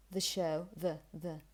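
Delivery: "The" as short "thuh"; unstressed schwa in "the"; weak article. Shown as a demonstration. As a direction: keep "the" light before "show". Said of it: "Or when you say".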